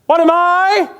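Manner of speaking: loud laughing roar; laughing shout. Acted. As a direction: bellow it through a laugh. Pirate roars with laughter.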